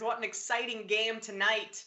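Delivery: dryly sarcastic, understated; a little sarcasm. Real, not acted. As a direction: feign interest with a touch of irony. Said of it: "a little sarcasm in my voice".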